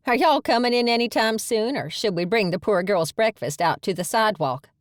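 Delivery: a playful sprite calling out to the dawdlers; sassy pixie voice. Acted. Pixie teasing the newcomers on the doorstep, perky.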